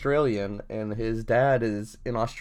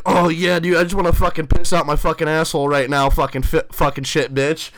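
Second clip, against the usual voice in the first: parody of professor; 3 semitones higher, 5 dB louder than usual. Retold or imitated.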